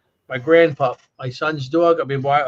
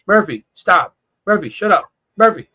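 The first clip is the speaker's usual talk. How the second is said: scolding the bird; 3 semitones higher, 4 dB louder than usual. Retold or imitated. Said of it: "So I say".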